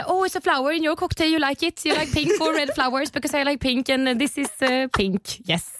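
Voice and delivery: put-on high-pitched, awkward Swedish-accented English; babbling Swenglish. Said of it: "Jag babblar ju på".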